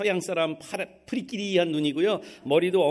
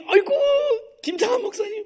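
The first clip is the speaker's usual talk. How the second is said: high, wailing cry of embarrassment; mortified wail; 5 dB louder than usual. Retold or imitated. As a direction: cry out in shame at the pastor. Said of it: "전화 끊어버린 거예요".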